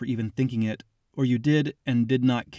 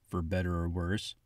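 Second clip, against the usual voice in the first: low, soft mumble under the breath; mumbling; 5 semitones lower, 7 dB quieter than usual. A narrator's reading. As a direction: mumble it to yourself.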